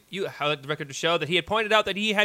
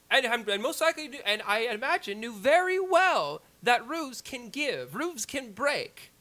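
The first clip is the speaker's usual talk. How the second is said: courtroom lawyer; 2 semitones higher than usual. Acted. Closing argument continued.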